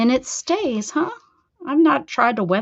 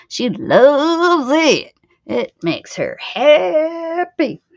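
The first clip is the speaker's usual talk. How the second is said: laughing; 4 semitones higher, 6 dB louder, much slower than usual. Real, not acted. Teasing, laughing.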